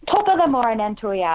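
a hammed-up American take on Irish, "ya" said loosely; lightly put-on tourist Irish accent; mock stage Irish. American guest teasing the Irish host with stage Irish. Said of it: "you're supposed to say".

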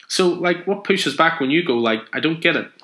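put-on high, eager child's questions; little girl. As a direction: pester him like a curious kid. Little girl puzzled by Superman.

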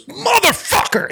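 high-pitched mock scream, drawn out; slow, high mock yell without full volume; retold scream. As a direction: imitate an outraged moviegoer screaming at the screen. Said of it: "he just screams it at the screen".

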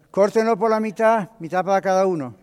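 lightly voiced ruler issuing a decree; commanding king. Solomon ordering a soldier to divide the child, commanding.

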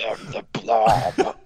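slow whispered Blob voice; flesh creature. Pretend. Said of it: "Do it really quick".

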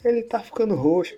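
high-pitched alarmed pleading; imitating a friend begging him to let go; panicked friend. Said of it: "aí falou assim".

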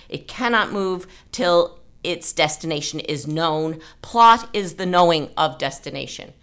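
measured reading of a literary quote; passage read aloud. Acted. Reading an author's passage to the writing group, measured. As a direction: read the excerpt with care, evenly.

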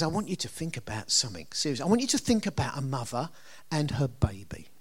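soft, quiet and intimate, ending in a whisper; quietly voicing God's earnest request; hushed quote. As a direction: draw them in close, dropping almost to a whisper. Quoting God, asking to reflect.

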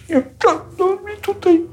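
very high, brushing it aside; squeaky hammed-up refusal; mock dismissive old boss. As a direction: wave off the commander's objection. Antoni waving away objection.

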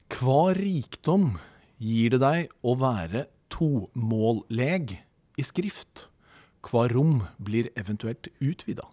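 slow, deliberate reading of a written question; reading aloud. Real, not acted. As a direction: read it out phrase by phrase, slowly. Reads out guest question. (langsom, tydelig høytlesning)

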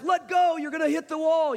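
high-pitched retold warning call. Family to kids on the zip line, calling out a warning.

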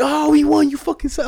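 high, loud imitation of gloating winners; mock gloating. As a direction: crow over the losers, hammed up.

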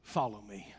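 almost a whisper, gently; hushed call. Retold or imitated. Jesus calling Peter again, soft and hushed. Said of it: "he says to him".

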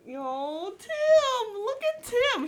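high shout across the room; calling out. Real, not acted. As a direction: call out to him loudly. Calling out to Tim.

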